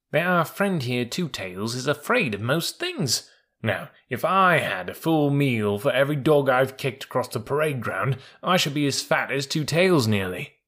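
lightly voiced scoffing mule; Billy the mule. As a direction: gossip drily about a timid friend. Billy mocks elephant to horse.

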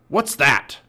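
shouted. A narrator's reading. Captain Bones startled by a shriek, shout. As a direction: bark the question as pirate captain. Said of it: "he shouted".

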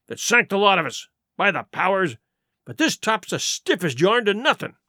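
indignant sea-dog, punching the accusations; Silver, vehement pirate captain. Acted. Silver answering four charges and blaming George, indignant. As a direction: build a forceful defence before the crew.

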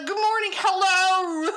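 loud, high mock Australian greeting; over-the-top fake Australian accent, half shouted; bad Australian accent. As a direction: shout it like a hammy Aussie TikTok guy. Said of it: "I'm the worst Australian accent ever".

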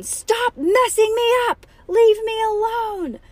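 high, loud, slow shriek; furious sister. A narrator's reading. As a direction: drag out each angry word. Nancy screams at barking sister.

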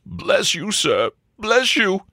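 high, quavery sobbing voice; acted grateful sob. Butler thanks Wilfred for lumbago cure, sobbing. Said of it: "sobbed Murgatroyd".

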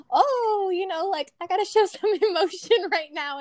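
mock a man clumsily trying to show feeling; hammed-up awkward show of emotion; awkwardly emotional. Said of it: "he doesn't know how to do it".

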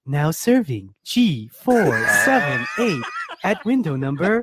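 slow, drawn-out counter call; DMV voice. Pretend. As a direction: announce the ticket like a weary clerk. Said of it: "I do the D M V voice".

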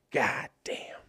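breathy whispered curse under the breath; muttered under breath. Real, not acted. Watching wrestling, muttering to himself in exasperation. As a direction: let it slip out as a whispered sigh.

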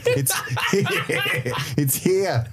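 trying out the Australian vowel in here; Australian accent. Pretend. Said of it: "How do you say it?".

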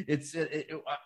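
stammering, holding back tears; choking up. Real, not acted. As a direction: voice catching with emotion. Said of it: "I'm choking up a little bit".

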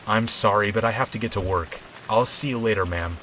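hurried, polite excuse; apologetic. Acted. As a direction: apologise and get away quickly. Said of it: "I said in an apologetic tone".

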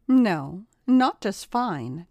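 slow, pressing demand; insist, drawing out not just fine. Acted. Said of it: "demanded Kayla".

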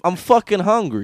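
loud mock complaint; hammed-up kiddie outrage; indignant Italian kid. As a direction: grumble loudly like a little wise guy. Tommy objects to nap time.

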